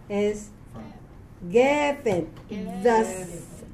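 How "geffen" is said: "geffen" with the accent on its first syllable; demonstrating front stress in "geffen". Shown as a demonstration. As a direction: lean on the opening syllable of "geffen". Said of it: "accent is on the first syllable".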